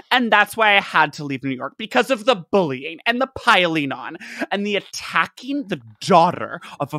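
high, mock-indignant complaint; lightly voiced self-pitying rant; mock whiny tirade. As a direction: whine it like a wounded martyr. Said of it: "ten-page tirade being like".

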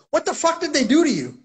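high-pitched mock kid voice, shocked; kids asking, shocked. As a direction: do the kids freaking out. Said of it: "And the kids are like".

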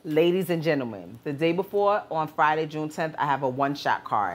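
announcer hype for the card; wrestling promo. Real, not acted. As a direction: sell the event like a promo. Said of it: "first we gotta do my promo".

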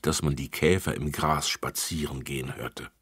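ordinary delivery, nothing marked

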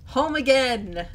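loud, high, drawn-out shout; tipsy homecoming yell; drunken cheer. Acted. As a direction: holler it slowly in drunken celebration. Drunk character whoops on getting home.

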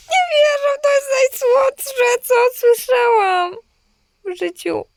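overwhelmed, voice cracking high with emotion; real tearful delight at a sweet message; moved to tears. Real, not acted. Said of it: "Się wzruszyłam".

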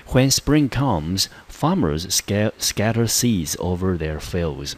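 slow, careful read of an example sentence; slow model reading. Shown as a demonstration. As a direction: read it out slowly for learners. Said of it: "那我们看第一个例句".

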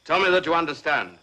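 firm officer pressing a subordinate; stern demand. Acted. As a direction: insist on being answered. Officer demands an answer from soldier.

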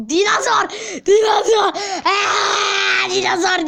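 high shouting over the dinosaur; crying shout. Acted. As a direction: wail out the dinosaur's name in shock. Finds the dead dinosaur.

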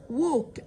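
"walk" said with no L sound; silent L. Shown as a demonstration. Teacher explaining that the L is not pronounced, demo of "walk" with silent L. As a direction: say "walk" as "wok", leaving the L out. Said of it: "ال L silent مش بننطقها".

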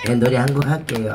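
usual speaking voice

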